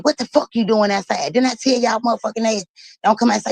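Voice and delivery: playing the fed-up father chewing out his kid; mock father scolding. Retelling a father scolding his daughter outside, mock scolding.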